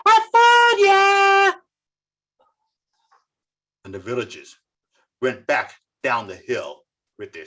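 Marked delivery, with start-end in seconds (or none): 0.1-1.6 mocking laugh. Shepherd boy laughing at fooled villagers, high and loud. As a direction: laugh in their faces. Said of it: "laughing at them".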